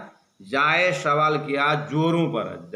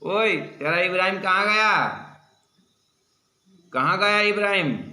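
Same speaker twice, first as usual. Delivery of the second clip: loud, higher angry questioning; angry demand; 5 semitones higher, 4 dB louder than usual. Retold or imitated. Angry visitor demanding where Ibrahim is, loud and high. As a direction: demand it in anger. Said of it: "देखो कितना गुस्सा है इसके ऊपर".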